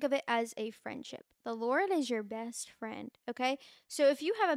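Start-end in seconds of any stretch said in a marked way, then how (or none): 1.4-3.1 slow, deliberate, each word weighed; slow emphatic repeat. Shown as a demonstration. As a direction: let it land slowly. Repeats the line slowly.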